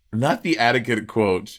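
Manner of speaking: put-on slow Southern-accented echo; teasing Southern imitation. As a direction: mimic a Southern accent, drawn out. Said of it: "you just got so Southern".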